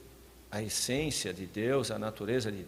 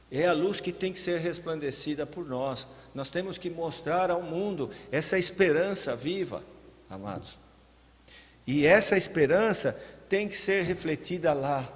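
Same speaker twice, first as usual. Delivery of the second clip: raised, louder preacher's voice; forceful preaching; 6 semitones higher, 5 dB louder than usual. Real, not acted. Preacher urging the congregation to show living hope, forceful. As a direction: press it home to the congregation with force.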